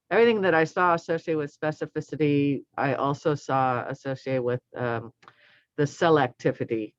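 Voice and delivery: speaking through a face mask; muffled behind a mask. Real, not acted. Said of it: "I'm sorry if I'm sounding muffled".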